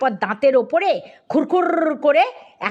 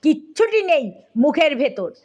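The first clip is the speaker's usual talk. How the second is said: plain reading voice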